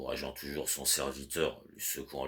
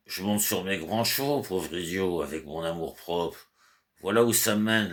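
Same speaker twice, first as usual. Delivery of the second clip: angry outburst; 3 semitones higher, 4 dB louder than usual. Acted. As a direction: rage at the servant like a panicked master. Master berates drunk servant over letter.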